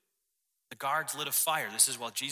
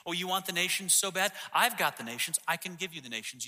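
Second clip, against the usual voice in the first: lightly voiced devil, pitched higher; mock tempter; 6 semitones higher than usual. Devil offering Jesus the nations, higher mock tempting voice. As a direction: dangle the offer in a higher, taunting tone.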